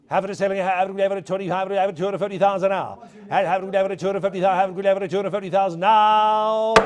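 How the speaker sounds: fast auctioneer bid chant; auction bid spotter. Acted. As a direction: rattle the increments quickly.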